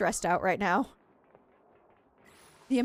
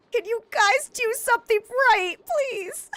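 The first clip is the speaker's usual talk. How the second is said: high, loud whiny plea; desperate plea; 13 semitones higher, 5 dB louder than usual. Real, not acted. Streamer begging her colonists, high and desperate. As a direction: beg them, nearly in tears.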